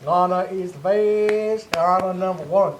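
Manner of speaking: half-hearted Russian accent playing Lana; mock Russian accent. Host imitating Lana in a mild Russian accent. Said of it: "that's not my accent".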